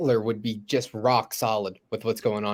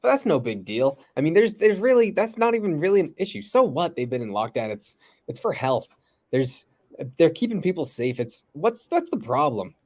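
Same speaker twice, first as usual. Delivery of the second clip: mock dismissive; 4 semitones higher than usual. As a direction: mimic the West brushing it off. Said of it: "they're looking at it like".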